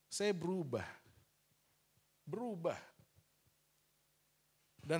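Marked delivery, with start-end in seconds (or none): 0.1-2.8 Saya berubah said again more softly and reflectively; a reflective second telling; soft echo. Shown as a demonstration. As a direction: let the repeat sink in quietly.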